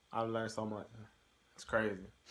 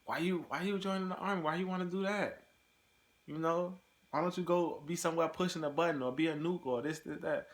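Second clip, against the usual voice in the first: high mocking voice, retelling the army guys' taunt; mock army guys; 6 semitones higher than usual. Army veterans mocking a recruit, high scoffing voice. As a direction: sneer it up high like a scoffing soldier. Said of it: "they were like".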